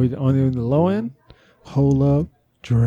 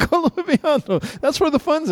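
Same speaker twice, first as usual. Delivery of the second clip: high pitched voice effect; 11 semitones higher than usual. Pretend. Pitch-shifted mixer voice.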